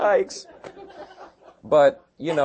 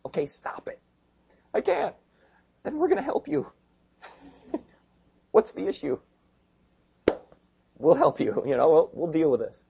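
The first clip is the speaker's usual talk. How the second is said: pitched way up, voicing a struggling friend and helpers; acted friend dialogue; 4 semitones higher than usual. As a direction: play both sides of a confession scene, light and high. Acted confession dialogue, high voices.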